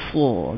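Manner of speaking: full "Sa" rounded toward "so"; lifted SA. Shown as a demonstration. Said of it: "Letak batu angkat ke atas".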